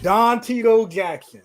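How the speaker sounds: slow, drawn-out ring announcer build-up; announcer introduction. Pretend. Host introduces his friend by his nicknames, mock announcer. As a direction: stretch each nickname grandly.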